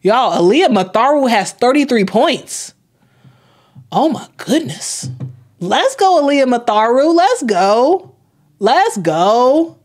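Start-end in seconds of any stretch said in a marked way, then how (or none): 3.9-9.8 excited cheering. Real, not acted. Streamer cheering her favourite player's big game, excited. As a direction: hype her up like a fan in the stands. Player scoring thirty-three points.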